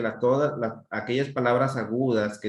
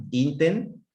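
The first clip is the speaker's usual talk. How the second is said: "inten" as one raised chunk; chunked syllables; 6 semitones higher than usual. Shown as a demonstration. Teacher demonstrating a word chunk to pupils, raised and isolated. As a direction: lift "inten" higher, as a piece cut off. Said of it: "hago dos pausas".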